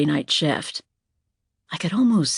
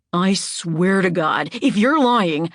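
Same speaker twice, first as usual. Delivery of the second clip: slow start rising to a louder burst; building threat; 3 semitones higher, 3 dB louder, slower than usual. Acted. Glenn threatening Anna outside the bar, rising anger. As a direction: menace that boils over.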